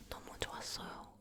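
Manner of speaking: ordinary delivery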